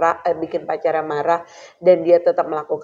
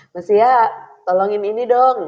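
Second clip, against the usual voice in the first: mild call to son; 3 semitones higher than usual. Shown as a demonstration. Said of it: "pakai intonasi aja dia udah tahu".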